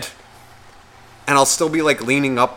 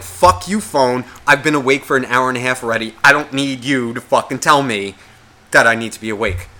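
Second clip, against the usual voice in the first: angry at phone. Retold or imitated. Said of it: "I get pissed off at the phone".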